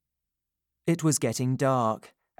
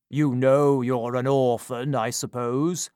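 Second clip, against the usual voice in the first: stern, lightly voiced gentleman; 4 dB louder than usual. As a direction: address the boy with cool authority. Gentleman questions the boy.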